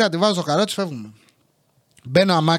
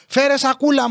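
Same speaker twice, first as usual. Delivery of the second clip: high-pitched hurried demand; panicky mother; 5 semitones higher than usual. Retold or imitated. Mother grabbing groceries in panic, urgent order. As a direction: imitate mum demanding help. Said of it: "παίρνει πανικόβλητη πράγματα".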